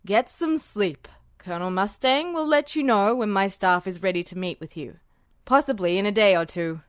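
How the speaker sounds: an officer worn out at the end of a long night; gentler, exhausted general. A narrator's reading. General sending Edward to rest, tired and gentle. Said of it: "his voice gentler and more exhausted".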